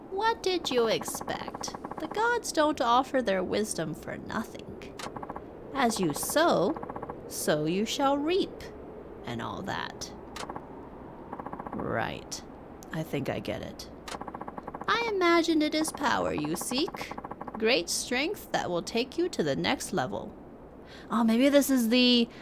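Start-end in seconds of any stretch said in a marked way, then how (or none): 0.1-8.6 put-on slow, lightly aged old man; a wise old hermit, unhurried. Reads old hermit NPC lines. 14.9-20.3 put-on slow, lightly aged old man; a wise old hermit, unhurried. Reads old hermit NPC lines.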